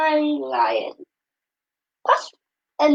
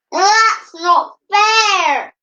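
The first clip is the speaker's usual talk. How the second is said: higher, louder, slow whiny protest; indignant protest; 7 semitones higher, 5 dB louder, much slower than usual. A narrator's reading. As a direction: whine it like jealous brothers. Jealous brothers complain at wedding.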